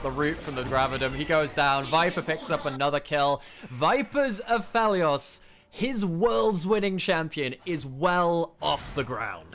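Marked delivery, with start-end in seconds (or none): 1.1-9.5 hype call. Real, not acted. Hyped call of a kill.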